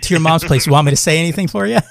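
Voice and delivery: quick, cocky mom joke; brisk mocking retort; teasing comeback. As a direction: rattle off the taunt fast. Imagined comeback, joking.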